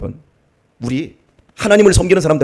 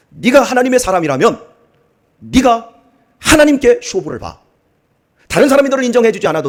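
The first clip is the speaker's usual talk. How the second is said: raised, insistent fatherly exhortation; retold fatherly admonition; 4 semitones higher, 3 dB louder than usual. Father urging his upset daughter to trust God, emphatic and raised. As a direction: press the advice home, high and forceful.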